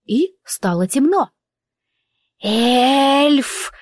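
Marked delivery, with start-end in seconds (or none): 2.4-3.7 a hissed, higher creature cry; Эльф hissed sharply. A narrator's reading. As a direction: spit the word out like a hiss. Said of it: "прошипело существо".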